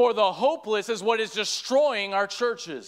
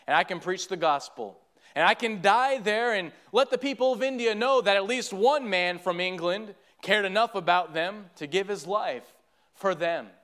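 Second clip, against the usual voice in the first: measured, lower-pitched storytelling from the pulpit; story narration; 4 semitones lower than usual. A narrator's reading. Preacher recounts an old missionary's appeal to a congregation, solemn narration. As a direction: tell it solemnly, letting key phrases land.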